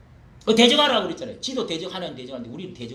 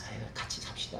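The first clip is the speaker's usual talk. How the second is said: mild mock plea; 6 semitones lower, 9 dB quieter than usual. Mocking timid believers' voice.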